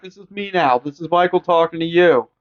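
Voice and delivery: high, coaxing sing-song voice; mock soothing killer. Joking as Michael, coaxing Lori out of the closet. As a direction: coax her out, fake gentle.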